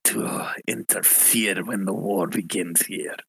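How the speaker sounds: put-on low, hard French accent for a revolutionary; a hint of an angry French accent, pitched a bit low. Rebel leader demanding war from the party, in a light French accent. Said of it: "going for more of a French accent".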